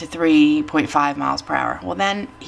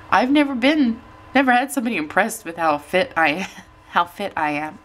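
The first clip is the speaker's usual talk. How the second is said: emotional; 3 semitones higher than usual. Real, not acted. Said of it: "I'm really super emotional".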